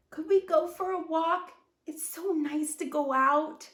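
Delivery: a light toy bear begging gently; eager little bear. A narrator's reading. Bear pleading with Fern.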